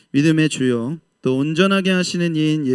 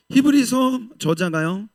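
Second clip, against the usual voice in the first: usual speaking voice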